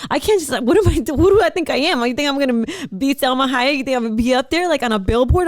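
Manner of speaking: spiral into panic, pitch climbing; rising panic. Retold or imitated. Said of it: "I started panicking".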